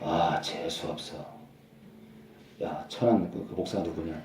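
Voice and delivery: a lightly voiced annoyed Satan muttering low; grumbling Satan. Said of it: "사탄이요".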